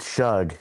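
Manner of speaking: Shug ending on a voiced G. Shown as a demonstration. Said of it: "with a G at the end".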